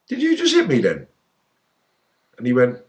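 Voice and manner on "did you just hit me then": stunned disbelief. Retold or imitated. Retold disbelief after hit.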